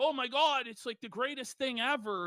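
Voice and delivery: ordinary talk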